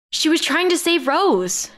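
high, drawn-out indignant cry; shouted protest. A narrator's reading. Amber shouting in protest as Lex knocks Gwen out. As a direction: protest it high and slow, in outrage. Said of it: "Amber shouted".

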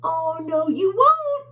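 very high, loud defiance; tiny bug. Acted. Tiny bug defying the bully, high and loud. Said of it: "says one of the tiny bugs".

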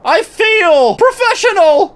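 high laughing cheer; laughing boast. Pretend.

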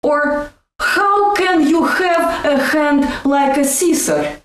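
Russian accent with throaty H sounds; Russian accent demo. Shown as a demonstration. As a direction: say it with Russian H's. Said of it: "Try to say".

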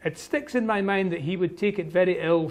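lightly voiced Highland Scots lilt; Highland Scots Alan. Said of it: "you can hear the Gaelic intonations".

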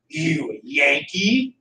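slow, drawn-out suspicious question; mock angry. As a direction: imitate a mad stranger, slowly. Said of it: "he's mad".

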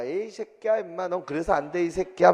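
mock cursing. Teacher imitates boys cursing after a fight, mock angry. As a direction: act out a tired fighter's parting insults. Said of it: "막 하면서 욕하잖아".

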